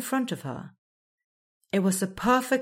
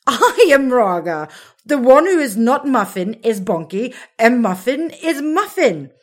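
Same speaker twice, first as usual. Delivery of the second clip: louder, higher, amused explaining; still giggling; 6 semitones higher, 10 dB louder than usual. A narrator's reading. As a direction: explain while barely holding in laughter. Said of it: "Raga couldn't stop laughing".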